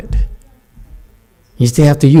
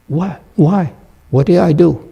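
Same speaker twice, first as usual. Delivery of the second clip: bewildered reaction; 6 semitones higher than usual. Acted. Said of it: "that's a natural reaction".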